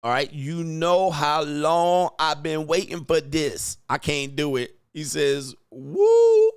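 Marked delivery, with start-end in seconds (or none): 0.3-3.8 slow, drawn-out New Orleans accent attempt; shaky try at a New Orleans accent. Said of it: "can you say this in a Nolans accent?". 5.7-6.5 a sudden high whoop, then a slow New Orleans drawl; a hammed-up New Orleans accent, whoop first. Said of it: "I'm not sure about this accent".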